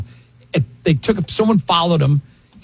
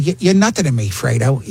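Pacino impression; 3 semitones lower than usual. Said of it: "And I did that voice".

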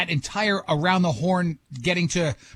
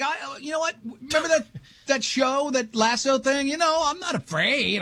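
mock Jason Sudeikis voice, pitched higher; higher-pitched mock of a cocky star; imitating Sudeikis; 6 semitones higher than usual. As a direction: lightly play the cocky actor shrugging off the show. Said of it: "so he's like".

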